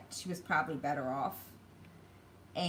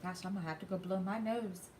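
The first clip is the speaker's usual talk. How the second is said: usual speaking voice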